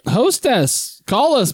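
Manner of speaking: high, sing-song mock Japanese accent. Friend teasing the hosts in a bad Japanese accent. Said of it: "Why are you Japanese all of a sudden?".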